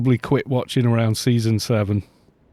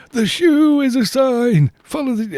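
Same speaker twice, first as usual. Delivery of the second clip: shoe-sign follower; 13 semitones higher than usual. Retold or imitated. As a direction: proclaim the sign with wide-eyed awe.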